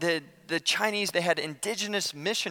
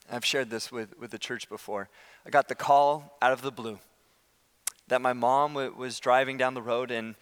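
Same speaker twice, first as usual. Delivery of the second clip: lower, sober telling; subdued, real grief; 5 semitones lower than usual. Real, not acted. Preacher telling the church of his mother's death, subdued. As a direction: recount it heavily, pitch dropped.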